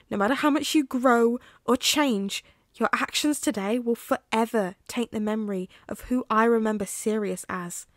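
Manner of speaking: hurt friend refusing to forgive, growing angry; bitter refusal. Acted.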